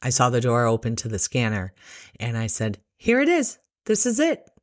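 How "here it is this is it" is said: high, light, lilting voice; gentle presenting. Retold or imitated. Nurse shows nervous patient the scanner, gentle presenting.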